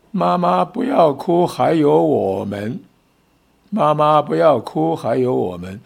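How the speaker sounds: put-on loud, slow, childlike plea; children pleading loudly. Little kids hugging mom's legs, begging her loudly not to cry. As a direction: call out to mom, drawn out and earnest. Small children comfort crying mother.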